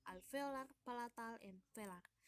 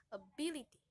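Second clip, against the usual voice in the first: "ability" with a louder BIL; primary stress; 5 dB louder, faster than usual. Shown as a demonstration. Teacher giving an example of primary stress, "ability" stressed on BIL. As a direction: lean firmly on the second syllable of "ability". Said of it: "Primary stress is strong pressure".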